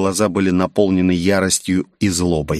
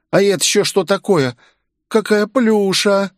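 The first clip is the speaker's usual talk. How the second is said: much higher, squealing delight; cooing girl; 11 semitones higher than usual. A narrator's reading. Girl seeing the furry monster, high squealing delight. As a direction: coo over something fluffy.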